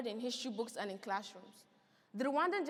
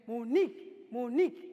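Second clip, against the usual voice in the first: calling out; 6 dB louder than usual. Acted. Uncle calling at the door.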